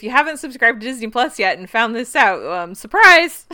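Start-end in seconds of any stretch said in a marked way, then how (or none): 2.7-3.5 drawn-out playful surprise; mock surprise. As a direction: sing out surprise slowly. Podcast plug reveal.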